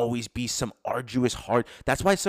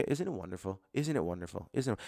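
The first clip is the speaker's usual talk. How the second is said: quiet repetition; 7 dB quieter than usual. Shown as a demonstration.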